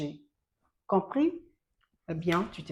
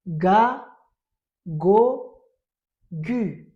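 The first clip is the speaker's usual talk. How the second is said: ga go called out louder; loud drilling; 7 dB louder, much slower than usual. Shown as a demonstration. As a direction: chant for the class. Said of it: "Répétons encore".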